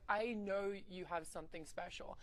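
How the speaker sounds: slow, earnest retold reassurance; sweet. Coach consoling his trainee on the steps, sweet. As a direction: reassure her sincerely, taking it slowly. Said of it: "he was just so sweet".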